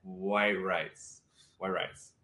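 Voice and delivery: a hint of French accent; French mother's accent. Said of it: "how does she pronounce it?".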